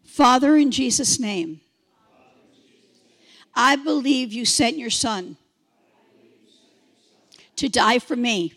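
led prayer. Real, not acted. Repeat after me.

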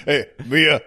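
lightly voiced character impression; an unconvincing stab at a movie character; Dom. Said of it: "I'm doing Dom's voice".

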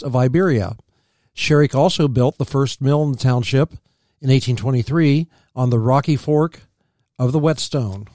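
measured reading from a history book; read-aloud history. Real, not acted. Co-host reading about early settlers, read-aloud history. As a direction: read the facts out evenly.

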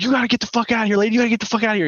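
high-pitched frantic ordering; retold panic. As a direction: imitate a man urgently throwing someone out. Ransacked man throws girl out.

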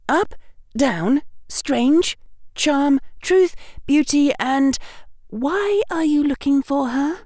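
bright, quick schoolgirl; prim helpful girl, quick and high; young girl voice. Acted. Hermione voiced in story.

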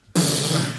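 loud mouth-made fuzz noise; imitated bass fuzz. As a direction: blast out a wall of distortion.

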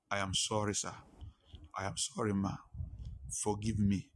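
low, subdued plea for forgiveness; humble apology. Retold or imitated. Humble apology on phone, kneeling.

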